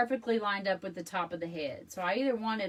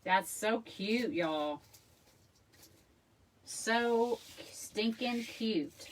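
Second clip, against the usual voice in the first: gushing; 2 semitones higher, much slower than usual. Real, not acted. Admiring finished wreath bow.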